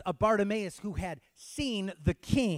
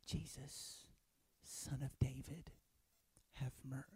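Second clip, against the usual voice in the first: very soft, hushed, halting plea; timid mock plea; 4 semitones lower, 17 dB quieter than usual. Shown as a demonstration. Preacher showing how Bartimaeus didn't cry out, hushed plea. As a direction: barely voice it, in small separate pieces. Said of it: "no, he cried, he shouted".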